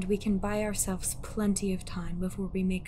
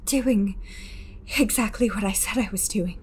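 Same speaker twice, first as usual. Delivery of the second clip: firm retort; 4 dB louder than usual. Acted. Lori answers shouted challenge.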